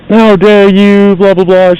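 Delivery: high, slow, huffy outrage; mock indignation. Caught shoplifter snaps back at the guard in high mock outrage. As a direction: play her offended, dragging it out. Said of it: "She's going off on me".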